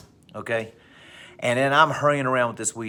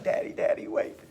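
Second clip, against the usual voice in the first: put-on breathy whisper of a small boy; whispered plea; 3 dB quieter than usual. Son whispering to dad to wait, hushed plea. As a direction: whisper it like a shy little kid.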